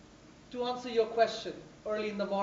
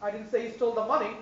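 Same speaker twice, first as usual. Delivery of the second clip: "money" stressed; faster than usual. Shown as a demonstration. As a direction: hit "money". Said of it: "stress on each word".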